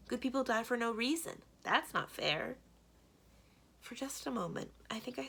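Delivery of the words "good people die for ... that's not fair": upset protest. Acted. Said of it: "boy protests to Sis".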